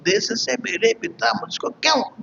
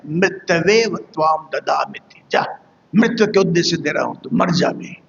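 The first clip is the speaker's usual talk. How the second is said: retold snap of an exasperated father; mildly acted irritation, in bursts; irritated outburst; 3 semitones lower than usual. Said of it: "झल्ला कर कह उठते हैं". (झल्लाहट भरा पिता का अभिनय)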